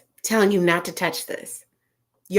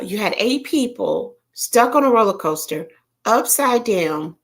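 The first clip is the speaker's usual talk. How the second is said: whisper. Shown as a demonstration. Repeats the line in a whisper.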